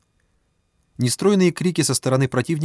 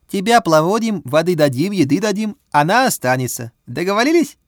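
put-on higher, louder accented Russian; Chinese accent Russian; 7 semitones higher, 5 dB louder than usual. A narrator's reading. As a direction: Bao bargains in accented Russian. Bao's accented offer.

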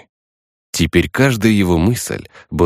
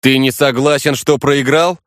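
smirking; 7 semitones higher than usual. Acted. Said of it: "усмехнулся я".

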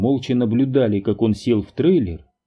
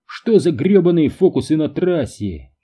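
high, loud furious yell; a driver keeps yelling about road tricks; shouting driver; 6 semitones higher, 4 dB louder than usual. A narrator's reading. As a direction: let it fly like an outraged driver. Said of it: "закричал он".

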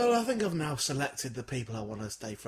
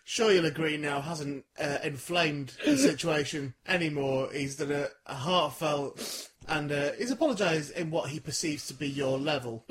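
mock-official announcement. Real, not acted. Host signs off like an official announcer.

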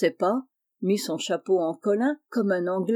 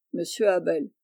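usual speaking voice

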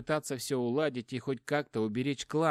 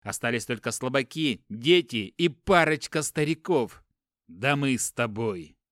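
desperate; 5 dB louder than usual. Acted. Brother defends his choice, desperate.

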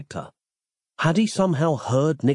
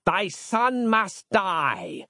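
slow, high, sinister pronouncement; villain's slow threat; menacing decree; 6 semitones higher, much slower than usual. A narrator's reading. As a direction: spell each word out as a doom.

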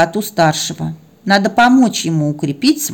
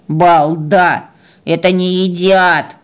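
indignant cat, drawn-out reproof; snorting scold; slower than usual. Acted. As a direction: scold the silly baby with a snort. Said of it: "фыркнула маняха". (возмущённо, с фырканьем)

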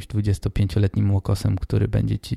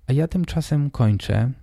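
stuffy nose. Real, not acted. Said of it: "mam dzisiaj nie dość, że chrypę, to jeszcze totalnie nie mogę oddychać nosem".

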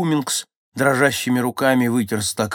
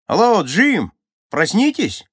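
loud call to wake him; shouting; 11 semitones higher, 8 dB louder, slower than usual. A narrator's reading. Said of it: "крикнул он".

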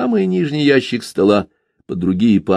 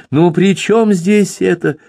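higher, slow exasperated protest; indignant; 10 semitones higher, slower than usual. A narrator's reading. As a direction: drag it out in disbelief. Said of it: "вновь возмутился сын".

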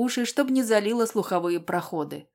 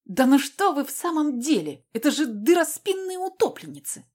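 furious shout; 7 semitones higher than usual. Acted. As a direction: yell it in helpless fury. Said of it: "прокричала в бессильной злобе".

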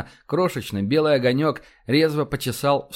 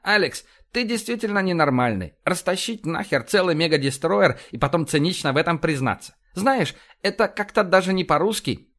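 higher, lively commander voice; blustering, animated officer, pitched up; brash police commander; 4 semitones higher than usual. Acted. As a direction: rattle off orders like a blunt cop boss.

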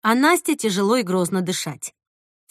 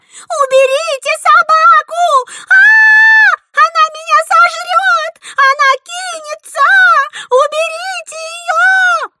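very high, loud, slow panicked shrieks; shrieking in terror; 11 dB louder, slower than usual. A narrator's reading. Girl begging adults to remove the dog, shrieking. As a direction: scream for help, terrified of the dog. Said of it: "визжала невидимая из комнаты Джессика".

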